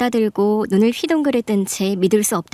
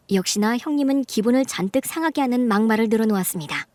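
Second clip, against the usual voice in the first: story narration; 4 dB quieter than usual. A narrator's reading.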